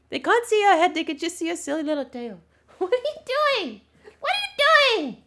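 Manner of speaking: loud, squeaky-high dog talk; really high-pitched voice. Real, not acted. Getting the dog to wag his tail, high-pitched voice. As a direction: pitch it way up for the pup. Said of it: "speak in a really high-pitched voice".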